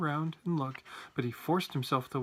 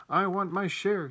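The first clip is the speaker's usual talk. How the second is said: loud, slow demand; raised voice, higher and drawn out; shouting; 5 semitones higher, 5 dB louder, slower than usual. A narrator's reading. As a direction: insist on it forcefully. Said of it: "shouted Grandpa George".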